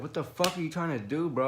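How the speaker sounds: high, exasperated challenge without extra volume; animated imitation of an irritated challenge; retold anger. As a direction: demand an answer, fed up. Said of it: "I had anger".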